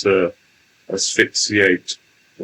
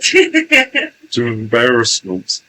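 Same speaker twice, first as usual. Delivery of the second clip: slow channeled entity voice; 4 semitones higher, 6 dB louder, slower than usual. Acted. Channeled entity addresses the young lady.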